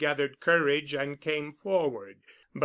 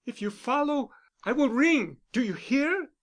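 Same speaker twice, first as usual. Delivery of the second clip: clear and firm; 8 semitones higher than usual. A narrator's reading. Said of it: "she said clearly".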